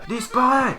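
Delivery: high-pitched mock battle cry in French; badly hammed-up French anime command; Xiao in French. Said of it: "That's my Xiao impression".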